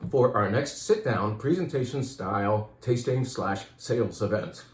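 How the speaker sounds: winded, short of air; out of breath. Real, not acted. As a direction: talk while catching your breath. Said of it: "Out of breath".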